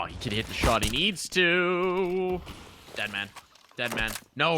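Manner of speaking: stretched key words, rising on big moments; live esports play-by-play. Real, not acted. Caster follows a player caught out of position, dramatic play-by-play. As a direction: build each call toward the shot.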